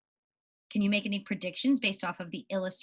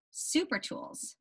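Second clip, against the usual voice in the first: whisper; 5 semitones higher, 9 dB quieter, much slower than usual. Shown as a demonstration. Title repeated whispered.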